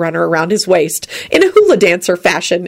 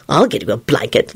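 lower, mildly pleasant; 4 semitones lower than usual. A narrator's reading. Lupin offers Neville a blanket, pleasant. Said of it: "Lupin told him pleasantly".

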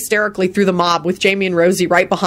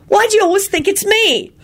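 put-on high, put-upon boy's complaint; whiny kid; 14 semitones higher than usual. A narrator's reading. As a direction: protest like a wronged child.

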